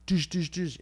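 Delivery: imitating banging on a wall; knocking sounds. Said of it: "and that's when I go".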